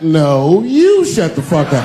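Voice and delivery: wife overruling the mogul; mock diva retort; a singer's clapback. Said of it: "Beyonce got".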